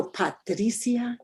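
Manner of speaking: Patricia said the way her mom says it, pah-TREE-see-ah; mother's pronunciation. Shown as a demonstration. Educator honoring a child's name, Patricia as pah-TREE-see-ah. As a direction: say Patricia in four syllables, stress on TREE. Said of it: "the way her mom says it".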